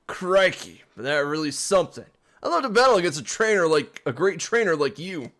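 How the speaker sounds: put-on loud, eager British fan accent. Team Yell fan flattering the trainer, hammed-up British accent. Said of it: "I don't know British accents".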